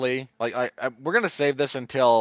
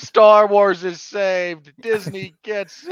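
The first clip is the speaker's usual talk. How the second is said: put-on weepy voice, higher and louder; 7 semitones higher, 8 dB louder than usual. Imitating Kevin Smith in his TikToks: mock weeping Kevin Smith. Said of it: "where he's weeping over industrial film".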